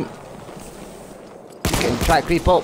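slow whisper, daring them on; taunting whisper. Real, not acted. Gamer whispering a dare at a sneaking enemy. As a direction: breathe it slowly like a stalker.

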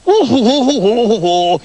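high, loud shocked cry; exclaimed. Acted. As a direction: gasp it out in disbelief. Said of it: "the other doctors exclaimed".

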